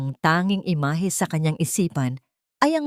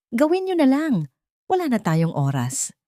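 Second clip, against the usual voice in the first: shouting; 7 semitones higher than usual. A narrator's reading. Mother yells at the hesitant doctor, raised and urgent. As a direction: yell it, desperate for no more delay. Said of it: "Ang bulyaw ni Lulu".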